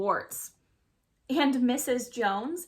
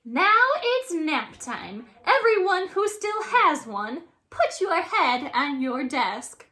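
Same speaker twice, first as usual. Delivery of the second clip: monster teacher; 5 semitones higher, 5 dB louder than usual. Acted. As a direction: announce it with dark relish. Monster teacher orders nap.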